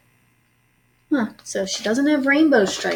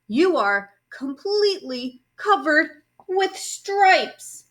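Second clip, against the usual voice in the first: alarmed mother; 6 semitones higher, slower than usual. A narrator's reading. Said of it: "she cried".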